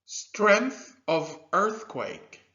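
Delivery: Strength of earthquake, drawn out slowly with weight on strength; slow model phrase. Shown as a demonstration. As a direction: spell out the phrase slowly for learners. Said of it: "Can you say that with me?".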